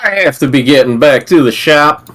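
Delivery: put-on a touch of down-home country accent. Reading the game's character aloud, country accent. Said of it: "Real country".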